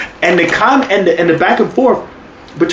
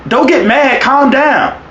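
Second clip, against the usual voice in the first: higher-pitched mock calming words; amused imitation; 10 semitones higher, slower than usual. Co-host retelling the commentator's awkward remark, amused imitation. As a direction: quote it high through amusement. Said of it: "I think he says".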